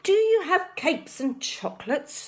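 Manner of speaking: high eager shout; cried. A narrator's reading. Highway rat calling eagerly into the cave, loud. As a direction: call greedily into the cave. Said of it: "the highway robber cried".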